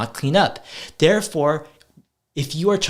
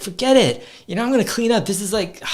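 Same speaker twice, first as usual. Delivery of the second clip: mock exasperated kid; 6 semitones higher, faster than usual. Kid rejecting dad's messy-house experiment, mock exasperated. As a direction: play the kid waving the idea off. Kids quoted refusing, voiced.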